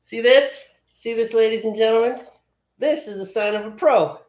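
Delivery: loud, lifted game-show host pitch to the room; mock showman. Host teasing Steve's beer to the audience, mock showman. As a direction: sell it like a presenter teasing a friend.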